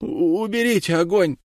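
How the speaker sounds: frantic cry to take the fire away. A narrator's reading. Tortured Katlina cries out to the judges, frantic. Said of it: "закричала она".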